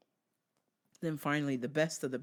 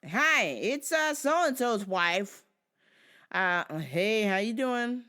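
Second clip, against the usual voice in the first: higher, louder wife voice; the wife calling; 5 semitones higher, 6 dB louder, slower than usual. Retold or imitated. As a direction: play the grumpy widow greeting. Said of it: "Wait till you hear this call".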